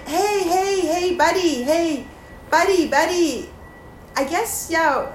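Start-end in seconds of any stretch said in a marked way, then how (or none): 0.1-3.5 high-pitched friendly call. Shown as a demonstration. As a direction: hail a buddy from afar. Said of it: "Yeah, like".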